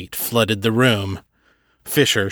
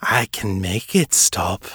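cooing vampire; 2 semitones lower than usual. Acted. Fisher cooing a false promise to Seffi. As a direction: coo it like a lullaby with poison. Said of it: "Fisher cooed".

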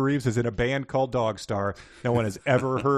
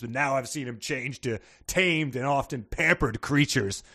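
boomer rant voice; 2 semitones lower than usual. Pretend. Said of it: "like a Facebook boomer kind of attitude".

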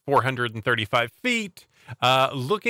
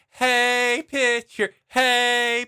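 put-on high, chanting kid heckle; heckling kid; 10 semitones higher, slower than usual. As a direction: taunt the pitcher like a brat.

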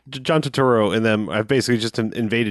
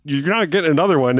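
higher-pitched imitation of a scolding mother; mock furious mom; 4 semitones higher than usual. Imitating a mom questioning her son, mock furious. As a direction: retell a mom's furious telling-off. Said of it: "she's fucking furious".

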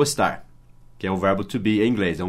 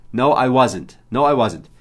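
ordinary talk, nothing marked

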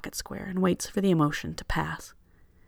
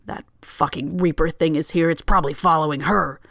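put-on drunk rant; 5 dB louder than usual. Drunk passenger ranting on plane.

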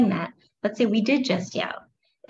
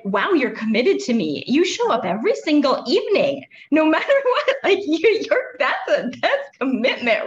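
building higher and louder into a laugh, mock admiring the anger; a parent thanking their own anger for showing up every evening, mock admiring and laughing; mock grateful; 6 semitones higher, 4 dB louder than usual. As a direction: thank your anger like a loyal friend, teasing it. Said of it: "I like to say too".

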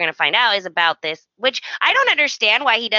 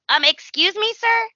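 mock indignant Donna; 11 semitones higher than usual. Mock Donna to intruding Thomas.

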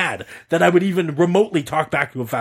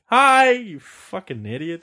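drawn-out, higher mock-friendly hi; slow, mocking hello; sarcastic greeting; 5 semitones higher, slower than usual. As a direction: greet him slowly with open contempt.

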